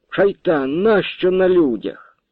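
high, slow mock scolding; lightly voiced shy wife. Bashful wife scolding her husband for kissing in public, high. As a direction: pull away shyly, chiding.

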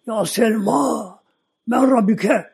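slow, high shouted question; angels shouting. Retold or imitated. Angels shout the grave question at Selma again, slow and high. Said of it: "daha çok bağırıyorlar".

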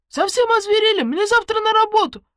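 high, loud furious shout; angry yell. Acted. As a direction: scream it from the crowd. Angry crowd member yelling.

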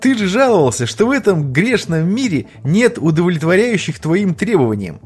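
high, teasing jab at a friend. Acted. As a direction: needle him with a grin. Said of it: "гыкнул Миха".

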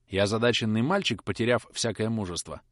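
ordinary delivery, nothing marked

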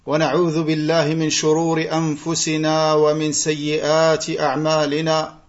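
level, measured Arabic sermon recitation; practised liturgical recitation with little pitch movement; formal opening invocation. Acted. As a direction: recite the opening praise evenly, on a steady near-monotone.

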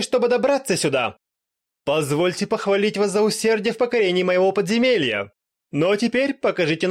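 high, loud pompous villain speech; grand vampire lord. Acted. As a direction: boom it out like a proud undead lord.

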